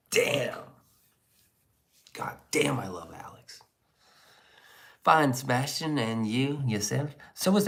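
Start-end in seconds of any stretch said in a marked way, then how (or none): 0.1-3.6 whisper. Pretend. Whispered mock love.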